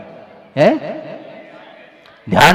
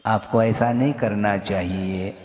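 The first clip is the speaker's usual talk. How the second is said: normal, non-commanding tone; 3 semitones lower, 5 dB quieter than usual. Shown as a demonstration. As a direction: softly put advice. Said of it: "ऐसा कहने से वह normal हो गया". (बिना आदेश के, धीमी सामान्य सलाह)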